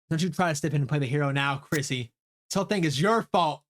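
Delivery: lightly voiced blame; accusing character. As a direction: point the finger, mildly heated. Voices character blaming Chrissy.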